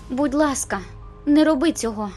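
high, loud, desperate begging; urgent pleading. Acted. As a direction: beg them not to go through with it. Bella begs Jacob as he leaves.

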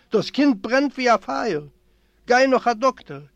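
crying out. A narrator's reading. Mother sends father for a doctor for feverish child, crying out. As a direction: cry out for help for a sick child. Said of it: "schreit aus".

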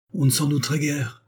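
dry retort. Acted. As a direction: cut him with dry scorn. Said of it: "reprit sèchement Athénaïs". (Athénaïs répond sèchement à son frère)

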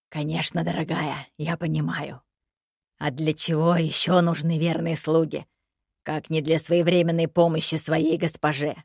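low, smooth ironic servant; dead servant voice. Acted. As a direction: purr it with mock devotion.

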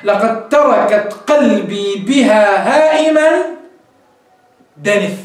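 slow, measured recital of the verse; poem recitation. Shown as a demonstration. Teacher reciting the verse for students, slow and measured. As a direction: recite it slowly, letting دنف fall away. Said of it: "فقال".

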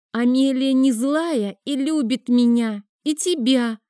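put-on high, slow and guileless child; little girl pleading for Amelia; artless little girl. A narrator's reading. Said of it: "бесхитростно сказала девочка".

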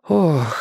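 long exhaled "oh" of realisation; drawn-out sigh. A narrator's reading. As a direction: breathe out slowly as it dawns. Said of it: "протяжно выдохнула Робин".

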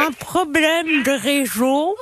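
pen in teeth. Real, not acted. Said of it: "avec un stylo dans la bouche".

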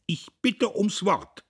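bursting up to claim the floor; indignant call. A narrator's reading. Diederich leaps up to speak.

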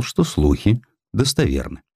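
plain reading voice

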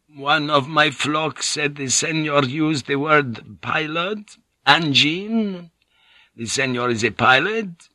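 put-on a frail old priest, cringing and eager; cringing breathless pleading. Old monk questions Blackthorne.

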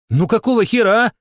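very high, loud protest; indignant shout. A narrator's reading. Shama protesting her unfair cards, indignant shouting. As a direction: yell it out in outrage. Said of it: "крикнула она".

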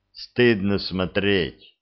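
slow, scornful remark; contemptuous. Acted. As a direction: drawl it with disgust. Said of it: "презрительно бросил Беркут". (презрительно, медленно)

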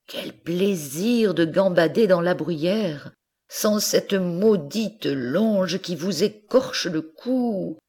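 longing for the mountain, half laughing; dreamy young goat. Acted. Goat dreaming of the mountain, wistful. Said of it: "elle se dit en regardant la montagne".

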